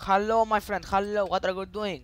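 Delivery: drawn-out greeting to get attention; calling out. Real, not acted. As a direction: call out loudly for a reply. Calling to players who don't answer.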